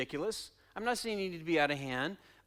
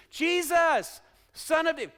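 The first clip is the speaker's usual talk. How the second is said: high, loud acted call; screaming out; 7 semitones higher, 5 dB louder than usual. Blind beggar screaming to Jesus too far away, loud call. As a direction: cry out to be heard from afar. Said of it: "he starts screaming".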